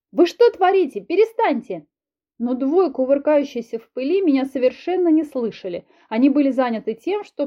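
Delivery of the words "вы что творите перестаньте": much higher, louder yelling; shout. Acted. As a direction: yell to break up a fight. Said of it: "закричала я".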